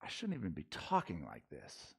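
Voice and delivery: a hint of Paul checking himself mid-boast; reluctant Paul. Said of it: "He's like".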